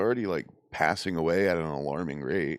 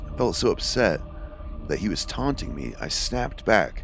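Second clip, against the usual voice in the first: measured read-aloud storytelling; steady narrator reading a first-person tale; story narration. A narrator's reading. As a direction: read a ghost story aloud, evenly paced.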